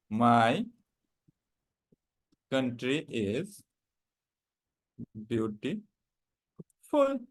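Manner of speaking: "My country is beautiful" drawn out word by word; each word spaced out and deliberate; slow model reading. Shown as a demonstration. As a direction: read the translation slowly for students. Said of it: "what will be the translation".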